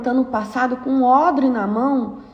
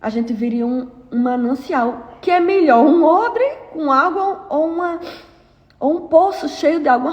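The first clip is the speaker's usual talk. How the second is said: pressing the congregation hard; fervent preaching; 2 semitones higher than usual. Acted. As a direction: preach it with rising fervor. Preaching at full force.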